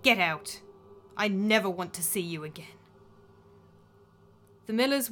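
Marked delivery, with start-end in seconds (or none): 0.0-2.8 cold contempt. Acted. Daughter dismisses stepmother, claiming estate.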